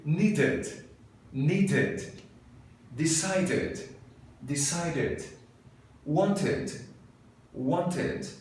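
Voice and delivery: chic, posed British accent; posh British accent. Shown as a demonstration. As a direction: strike a pose and sound very British. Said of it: "com sotaque British ... very chic".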